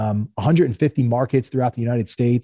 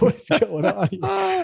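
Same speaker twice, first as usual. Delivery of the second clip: bewildered; slower than usual. Retold or imitated. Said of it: "I'm like".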